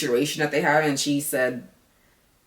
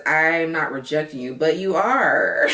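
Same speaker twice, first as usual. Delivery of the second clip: mocking quote; 4 dB louder, slower than usual. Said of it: "And he says".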